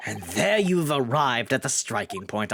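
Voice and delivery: lightly voiced stern lord, slow; a hint of an aristocratic judge; Lord Van Zyk voice. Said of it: "I was just doing Lord Van Zyk's".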